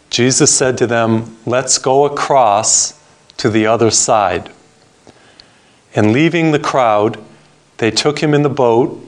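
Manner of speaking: measured Bible reading with long pauses; scripture reading. Acted. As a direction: read the gospel aloud solemnly, phrase by phrase. Reads scripture aloud to congregation.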